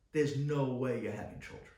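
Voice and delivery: put-on doctor's flat verdict in a German accent; mimicking the German doctor's accent. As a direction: deliver it like a blunt German doctor. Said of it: "With the German accent".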